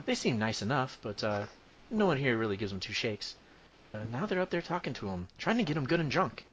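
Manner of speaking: chatty tavern keeper recap; gossipy innkeeper telling the news; previously on recap. Acted.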